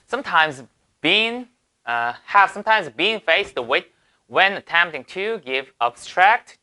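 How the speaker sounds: reads the English line slowly, word by word. Shown as a demonstration. Teacher reading the example sentence aloud slowly. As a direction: spell out the sentence for students.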